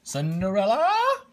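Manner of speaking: high, loud call across the house. Acted. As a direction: shout her name from downstairs. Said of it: "her stepmother and stepsisters called".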